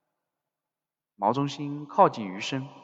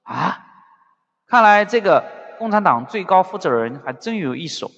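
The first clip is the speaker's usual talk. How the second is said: questioning "ah", then louder and higher; feigned surprise; 5 semitones higher, 6 dB louder than usual. A narrator's reading. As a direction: act mildly amazed at the news. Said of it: "余生装作惊奇地问道". (装作惊奇)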